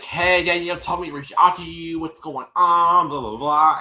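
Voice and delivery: high, loud acted-out hello; imitating a casual greeting. Acting out his message to her.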